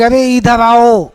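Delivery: slow drawn-out mock call; teacher calling across a field; calling from far. Shown as a demonstration. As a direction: call someone from far away, stretching the words. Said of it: "चिल्ला के बुलाएंगे".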